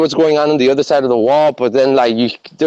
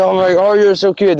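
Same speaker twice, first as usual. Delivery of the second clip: put-on higher, gushing baby-animal voice; cooing at cute chickens; 5 semitones higher than usual. Telling his friend how he cuddled the chickens, higher gushing coo. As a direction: coo over them like pets.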